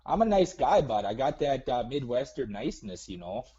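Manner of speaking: lightly hammed-up Midwestern nice-guy voice; put-on Minnesota accent. Prank caller doing Minnesota nice to host, mild accent. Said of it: "Why are you talking like that?".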